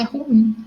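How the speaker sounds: ruim said as RUim, quoting the mistake; wrong stress on RU. Shown as a demonstration. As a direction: lean on the "u" in ruim. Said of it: "Muitas vezes falamos ruim".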